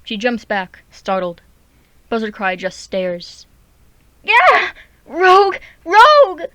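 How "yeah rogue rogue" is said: high, loud alarm yell; she-cat yelling that a rogue has come. Acted. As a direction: raise the alarm at the top of your voice. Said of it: "she yells".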